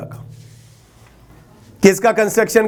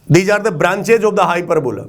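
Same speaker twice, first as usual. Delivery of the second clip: slow dictation; 3 semitones lower, much slower than usual. Shown as a demonstration. Teacher dictates key term.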